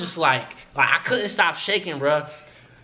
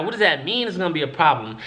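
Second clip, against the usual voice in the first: nervous laugh; faster than usual. Real, not acted. Nervous laugh at bad news.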